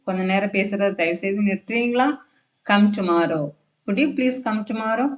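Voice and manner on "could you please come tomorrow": slow, higher polite question; polite request. Shown as a demonstration. Teacher models polite English for learners, polite request. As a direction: ask courteously, rising at the end. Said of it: "இந்த மாதிரி பேசி பாருங்க".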